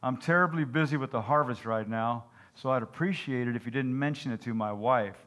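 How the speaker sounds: dull, flat farmer voice; deadpan, no interest at all; monotone voice. Acted. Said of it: "in a monotone voice".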